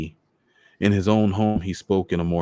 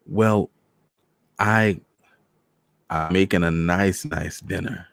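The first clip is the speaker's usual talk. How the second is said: pleading; slower than usual. Acted. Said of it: "he pleaded".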